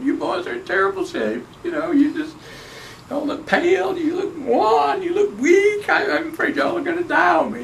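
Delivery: high-pitched mock alarm, half shouted; imitating his father. Dad ribbing two old men, high mock-worried shout. Dad teasing friends in story.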